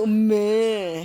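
long drawn-out slow moo; cow moo. Shown as a demonstration. Mother showing her toddler a slow cow moo. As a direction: stretch the moo out like a calf. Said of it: "해봐, 네가 울어봐".

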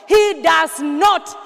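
slow, loud, punched "he does not"; emphatic declaration. Acted. Preacher insisting to the church that God never sleeps, slow and loud. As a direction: hammer home "he does not" slowly and loudly.

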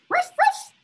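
high, loud puppy yip; dog bark. Shown as a demonstration. Teacher rereading the box's bark as a clue. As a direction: bark like a little dog in a box.

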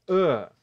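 "a." as a short, weak uh sound; reduced a. Shown as a demonstration. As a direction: drop "a." to a quick neutral vowel. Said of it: "o som muda e o som vira".

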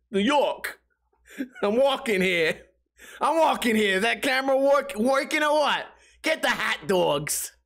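hammed-up, high-pitched New York caricature; bad New York accent. Mocking a New Yorker who's walking here, hammy accent. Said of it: "I don't know how to do a New York accent".

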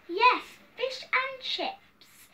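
high-pitched, drawn-out relish; eager hungry king. Acted. Hungry king tells the cook what he fancies, eagerly. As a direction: savour it slowly, pitched well up.

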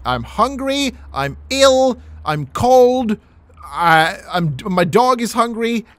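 whiny beggar. Acted. Beggar listing his woes to passersby, whiny plea. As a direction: whine like a pitiful beggar. Mock begging whine.

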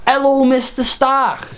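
slow scornful echo aimed at Joffrey; mocking repeat. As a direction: parrot him back slowly with scorn. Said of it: "I said".

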